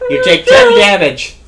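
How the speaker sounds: high loud game-master call; booming game announcer; announcing damage. Acted. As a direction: boom out the damage like a referee.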